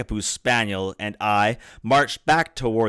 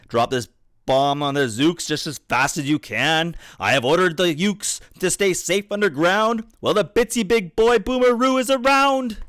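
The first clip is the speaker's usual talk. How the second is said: rousing command; 8 semitones higher than usual. A narrator's reading. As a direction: pitch climbing to a high peak. Chief gives rousing bombing order.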